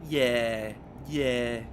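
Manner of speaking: loud, mocking Dublin mammy "yeah, yeah"; mock Dublin accent. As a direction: take off a Dublin mother's drawn yeah. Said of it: "the accent was that typical".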